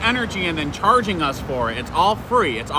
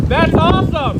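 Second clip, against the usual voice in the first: excited; 12 semitones higher, 6 dB louder, slower than usual. Real, not acted. Excited over a van on camera.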